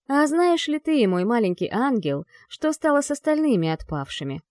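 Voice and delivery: menacing demon lord voice; dark lord. Acted. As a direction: speak as a cruel demon ruler. Demon lord speaks to angel.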